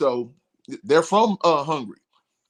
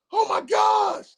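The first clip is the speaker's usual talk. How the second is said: mock surprised; slower than usual. Bandmate stunned hearing the crowd chant, high shocked yelp. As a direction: gasp it out, stunned. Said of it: "He was just like".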